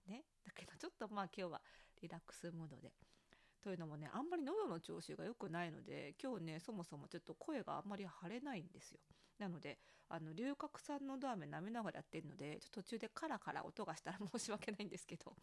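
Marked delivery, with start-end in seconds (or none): 3.7-15.3 sucking a throat lozenge while talking. Real, not acted. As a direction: talk around a throat lozenge.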